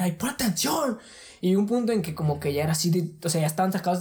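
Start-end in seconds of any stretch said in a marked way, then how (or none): 0.0-1.0 higher, sharp scolding; mock scolding parent. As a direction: scold like an exasperated mom. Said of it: "empezaron ya a gritar".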